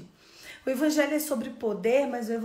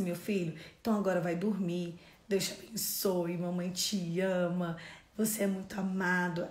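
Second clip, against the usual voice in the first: lower, slowed retold bedtime blessing; tender goodnight; 4 semitones lower than usual. Mother sends her beloved son to sleep, tender. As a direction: settle a child lovingly, unhurried.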